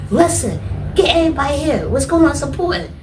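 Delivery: high, loud urgent call to nurses; high loud urgent summons. Retold or imitated. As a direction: shout for everyone to come. Calling the nurse.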